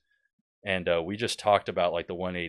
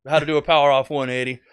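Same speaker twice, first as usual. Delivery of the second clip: higher, quick YouTube instructor intro; video tutorial host; 5 semitones higher, 4 dB louder, faster than usual. Retold or imitated. Pilot opening his how-to video on power-off landings, presenter voice. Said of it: "and he was like".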